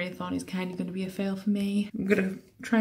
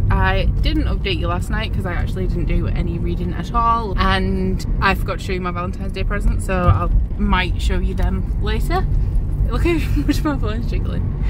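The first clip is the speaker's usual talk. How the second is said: on a bumpy road; 10 dB louder than usual. Real, not acted. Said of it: "I'm sorry for the shaking, but I'm in the car".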